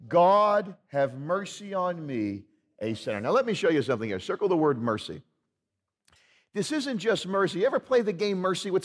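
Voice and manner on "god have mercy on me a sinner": humble prayer. Shown as a demonstration. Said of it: "Can we say that together?".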